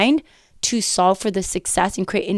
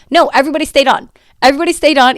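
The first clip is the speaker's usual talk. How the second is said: emphatic; 5 semitones higher, 6 dB louder, faster than usual. Real, not acted. Emphatic correction.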